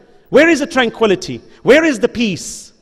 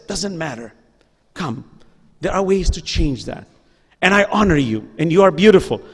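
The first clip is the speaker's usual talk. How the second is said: softer, lower, tender encouragement; gentle reassurance; 5 semitones lower, 3 dB quieter than usual. Retold or imitated. Imam reassuring a lost youth on the streets, soft and tender. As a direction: soothe a lost young man softly.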